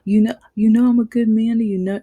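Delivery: mock a tearful man begging; hammed-up whimpering plea; imitating his crying. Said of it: "And he's crying".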